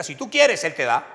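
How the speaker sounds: preacher's call and response; call to repeat. Shown as a demonstration. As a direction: lead the congregation to echo it. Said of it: "¿Cómo es? Diga".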